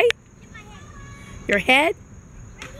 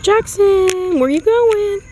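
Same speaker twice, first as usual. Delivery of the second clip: calling after; 8 semitones higher, 4 dB louder, slower than usual. Real, not acted. Calling after wandering toddler.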